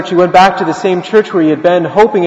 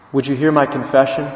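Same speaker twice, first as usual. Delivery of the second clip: softer, gently retold plea; humble request; 2 semitones lower, 5 dB quieter than usual. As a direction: ask a sacred favour quietly. Pope humbly asks beggar for confession.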